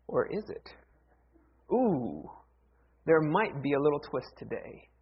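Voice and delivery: soft, hushed teasing hint; playful hush before the twist. Acted. Teasing hint about sermon twist.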